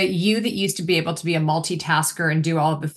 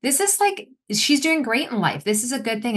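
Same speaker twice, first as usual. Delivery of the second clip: lightly voiced husband, starting much higher; mock-reassure like a patient husband; a hint of husband calming his emotional wife; imitating husband; 6 semitones higher than usual. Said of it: "My husband was like".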